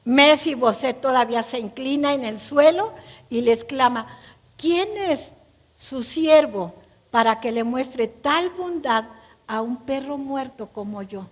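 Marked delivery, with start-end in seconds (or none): 4.6-11.3 fearful and sad. Acted. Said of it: "Con unas palabras de miedo, de tristeza".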